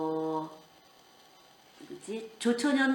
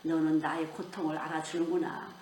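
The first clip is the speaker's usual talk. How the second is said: lower, understated contentment; pleased, tender Jesus; 4 semitones lower, 4 dB quieter than usual. Acted. Jesus answers a believer who loves him, quietly pleased. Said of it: "흐뭇해하세요".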